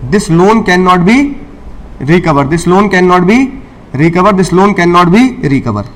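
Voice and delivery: slow dictation. Shown as a demonstration. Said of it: "teacher dictating the rule".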